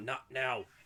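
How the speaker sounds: barely audible mumble, under the breath. Voicing a character overheard by the players: mumbling under her breath. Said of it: "hear her mumble under her breath".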